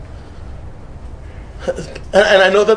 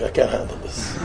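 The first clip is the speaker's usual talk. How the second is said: laughing giving up; 9 semitones lower, 11 dB quieter than usual. Retold or imitated. Quoting the man giving up.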